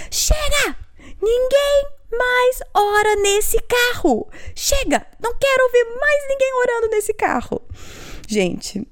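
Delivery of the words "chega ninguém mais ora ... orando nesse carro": put-on very high, drawn-out yell at the kids; re-enacted mum's scream. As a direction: shriek like a mother at breaking point. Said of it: "essa mãe gritou e falou assim".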